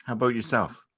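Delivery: over-bright small talk to hide nerves; awkward brightness. Acted. Two exes meeting by chance, nervously bright.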